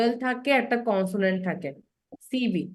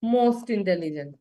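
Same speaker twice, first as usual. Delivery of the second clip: slow drawn-out demo; 4 semitones lower, much slower than usual. Shown as a demonstration. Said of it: "আবার কি বলি".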